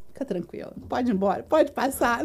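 lightly acted calm-down; retold reassurance. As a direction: soothe with a pat on the back. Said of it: "bateu nas minhas costas".

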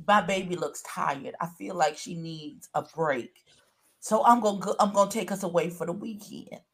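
softly voiced caring partner; tender retold thought. Host imagines a man worrying over his tired partner, soft and tender. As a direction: say it softly, as if thinking of a loved one.

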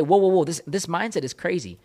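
acted-out startled pushback; alarmed objection. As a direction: cut in like a taken-aback listener. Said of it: "some of you might say".

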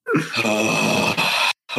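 drawn-out exasperated sigh; long weary sigh. Real, not acted. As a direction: let out a long, heavy sigh. Reacting to the absurd tricycle twist.

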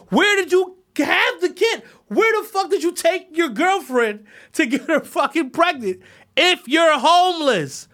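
high, loud disbelieving demand; real outrage at the guy; incredulous yell. Real, not acted. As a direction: shout the question in disbelief. Incredulous rant at homeless father.

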